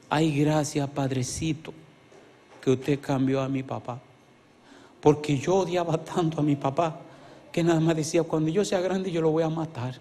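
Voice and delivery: put-on a touch of a crying child's thanks; preacher quoting the boy to the pastor, softly tearful. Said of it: "llorando, me decía".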